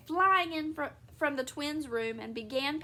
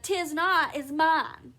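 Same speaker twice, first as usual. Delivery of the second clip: louder, moderately raised squabbling voice; childish retort; 4 semitones higher, 6 dB louder, much slower than usual. A narrator's reading. Wife contradicting husband over towel, loud childish retort. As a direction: throw the contradiction straight back. Wife throws same words back.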